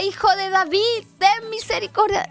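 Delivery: imitated crying out. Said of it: "así como el que le gritaba".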